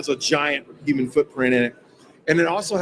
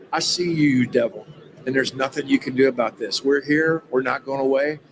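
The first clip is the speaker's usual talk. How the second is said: rebuking the devil; 3 semitones lower than usual. Retold or imitated. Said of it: "And I'm talking in this voice".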